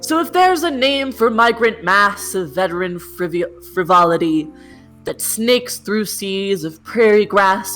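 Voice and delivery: grand, measured poetry reading; poem recital. Acted. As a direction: declaim the river's true name. Finishes the poem.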